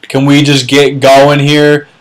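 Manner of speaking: hammed-up impatient leaguemate; impatient league members. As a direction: groan at them to hurry up. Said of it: "four or five people just".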